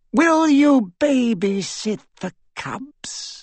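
high, slow, mocking villain; mocking dark lord. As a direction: taunt slowly, cold and high. Voldemort mocks Draco.

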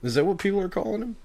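incredulous, pitch jumping up; can't believe the nickname; double take. Real, not acted. Host hears a new nickname.

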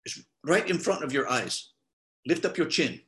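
imitating a non-native English speaker's accent; bad foreign accent. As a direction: put on a clumsy foreign accent, unsure from where. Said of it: "I'm sorry for a bad accent".

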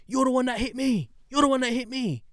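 high-pitched mocking whine of the other driver; mock ranting driver. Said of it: "he goes off on a rant saying".

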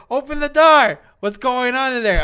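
high, loud demand from outside; angry manager shout. Retold or imitated. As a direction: bang on the door and yell. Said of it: "he's like".

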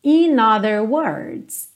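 "In other words" run together; linked words. Shown as a demonstration. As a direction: link "In other" into one flow. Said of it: "é claro que a gente junta".

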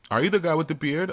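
man imitating his date, high and curious; high mock girl voice. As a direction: voice her high and questioning. Voicing the date's question.

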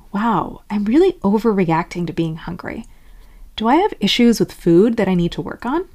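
mild mock worry; overly concerned. Overthinking your hunger, mildly overconcerned. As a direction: question yourself with a touch of alarm. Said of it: "getting overly concerned would sound like".

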